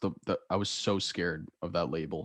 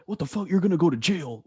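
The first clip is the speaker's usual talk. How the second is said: higher, outraged teacher mock; shocked teacher; 8 semitones higher than usual. Teacher reacting to a student's complaint, high mock outrage. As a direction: mimic a scandalized teacher. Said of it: "They're like".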